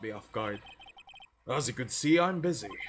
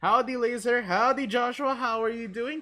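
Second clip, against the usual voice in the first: higher, louder, eager rookie cop; a nervous beat cop bursting in to report; goofy cop voice; 10 semitones higher, 9 dB louder than usual. Acted. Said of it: "Let me try and find a voice for him".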